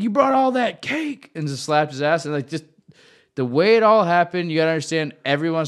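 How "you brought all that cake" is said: high, slow, sly punchline; teasing kid voice. Retold or imitated. Teammate delivering the joke in a high, slow, sly voice. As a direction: drag the line out slyly, pitched up. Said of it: "he's like".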